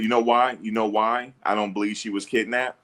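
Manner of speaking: ordinary talk, nothing marked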